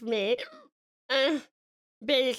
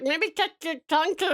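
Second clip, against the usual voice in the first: giggling through hiccups; words breaking into giggles; 5 semitones higher than usual. Real, not acted. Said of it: "I'm giggling and then I'm hiccuping".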